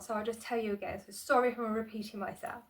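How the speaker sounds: breathless vlogger talk; winded, short of air; out of breath. Real, not acted. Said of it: "I'm really out of breath".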